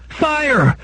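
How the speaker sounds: high, drawn-out alarm call; cry of alarm. A narrator's reading. Household raising alarm down every corridor, high-pitched cry. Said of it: "till cries of".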